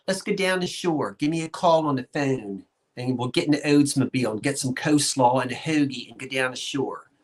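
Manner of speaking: a South Jersey accent, hamming up the local talk; a proud South Jersey accent, playing it up. Shown as a demonstration. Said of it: "That's how we talk in South Jersey".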